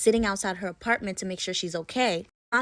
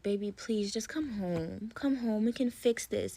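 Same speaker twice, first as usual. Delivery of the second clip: pleading softly; 5 dB quieter than usual. Retold or imitated. Husband begging wife to return.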